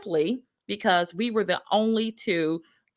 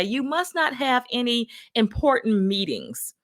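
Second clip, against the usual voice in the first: raised-pitch mock manager's remark; higher, pointed retold jibe; imitating manager; 4 semitones higher than usual. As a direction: lightly imitate a manager's backhanded comment. Manager's remark, then repeated as own.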